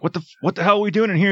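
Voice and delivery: high, rapid burst of disbelief; mock indignant outburst; retold indignant question. Acted quote from a quarrel.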